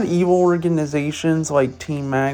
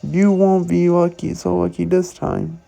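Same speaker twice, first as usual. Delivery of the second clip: higher, punchy street-thug swagger; fake tough gangster; 4 semitones higher than usual. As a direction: play a cocky Team Skull grunt. Voices Team Skull grunts.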